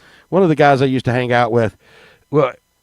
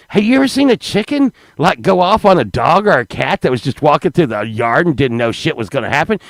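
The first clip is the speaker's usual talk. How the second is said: mock angry lady. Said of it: "this lady just goes off on me like".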